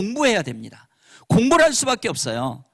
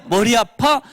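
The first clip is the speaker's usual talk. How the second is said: caring echo; 4 semitones higher, 4 dB louder, slower than usual. Shown as a demonstration. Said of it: "이렇게 해주시고".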